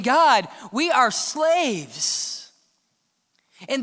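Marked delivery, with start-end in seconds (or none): 0.0-2.5 very slow, dragged out plea; mock lament. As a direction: drag out the cry to God. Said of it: "crying out to God saying".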